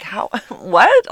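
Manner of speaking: giggling, baffled question; laughing disbelief. Retold or imitated. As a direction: laugh through the confusion.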